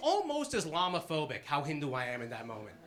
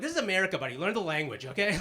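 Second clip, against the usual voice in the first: mock indignant; 3 semitones higher, 4 dB louder, faster than usual. Mock xenophobic retort.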